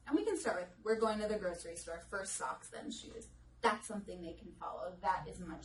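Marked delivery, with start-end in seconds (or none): 0.8-3.3 pared-down directions with a hushed then shoes; simplified instructions. Shown as a demonstration. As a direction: give a child one step at a time. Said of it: "So that's when we go to socks on, then shoes".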